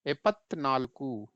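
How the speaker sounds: एपत्नालकू said slowly and carefully; Kannada pronunciation demo. Shown as a demonstration. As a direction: model एपत्नालकू slowly for the class. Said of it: "पढ़ेंगे कैसे?".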